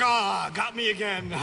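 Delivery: gloating chuckle in a put-on voice; a smug parent who has won, laughing; mock gloating laugh. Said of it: "you're like".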